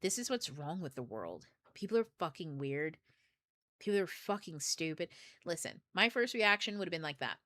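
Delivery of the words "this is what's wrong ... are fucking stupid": low, quiet grumble to oneself; mildly disgusted, kept low and soft; sitting in negativity. Acted. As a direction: sour verdict under restraint. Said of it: "sit with it in my body and say".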